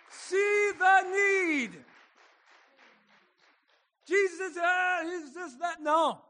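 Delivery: hushed, high and slow; soft high preaching. Real, not acted. Preacher hushing the congregation, soft and high. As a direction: lean in and say it softly.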